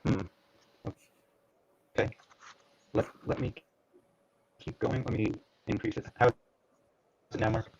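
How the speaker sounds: choppy dropouts on a call; garbled, cutting-out connection; audio breaking up. Real, not acted. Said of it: "no difference".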